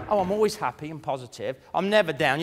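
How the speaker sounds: mock cheery boast. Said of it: "come up here and say".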